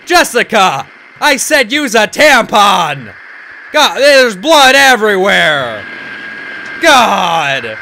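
loud, drawn-out pretend outrage; mock scolding. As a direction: holler in hammed-up disgust. Mock scolding of imagined Jessica.

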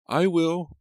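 put-on high, loud girlish call; happy calling back. A narrator's reading. Abigail calls to Papa as she runs off, happily. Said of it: "Abigail called back happily".

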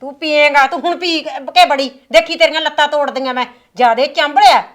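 mother scolding her drinking son loudly; angry threat. Acted. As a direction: threaten to break his legs.

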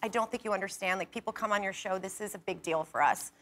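soft, low, earnest appeal; heartfelt. Retold or imitated. Guest telling the show's star what it means, softly heartfelt. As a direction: confide it gently and sincerely. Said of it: "I was really heartfelt".

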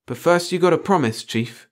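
high-pitched shrewd bargaining. A narrator's reading. Pringle bargaining with the chief for secrecy, shrewdly. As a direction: set the condition knowingly, dropping on "Chief". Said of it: "Then shrewdly".

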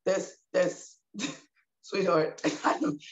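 retold correction broken by laughter; laughing. Mom fumbling to correct her daughter, laughing. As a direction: laugh through a stammered attempt to correct.

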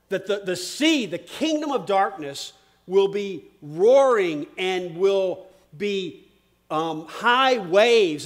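emphatic preaching with stretched key words; forceful preaching. Real, not acted. Preacher warning the congregation of roaring evil, forceful preaching.

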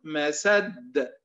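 مسد said with a forced bounce on the final د; wrong qalqala. Shown as a demonstration. Teacher demonstrates the wrong echo on مسد for students. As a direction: demo of the mistaken echo on مسد. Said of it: "يتوهم أنه ليقلقل يفعل هكذا".

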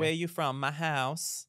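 put-on playful London accent like a singer's; British accent. Trading British accents with a friend, London accent. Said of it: "She's, like, doing a singer".

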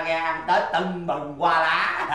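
slow boast breaking into laughter; gloating laugh. Acted. Father bragging to neighbour about Tết, gloating laugh. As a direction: finish the boast with a big laugh.

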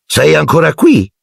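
high, sneering aunt voice; high contemptuous question; Aunt Marge. A narrator's reading. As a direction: sneer at the boy, pitched high. Marge snaps at Harry.

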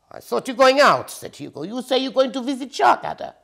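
high loud hamster voice. A narrator's reading. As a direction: remind her pointedly.

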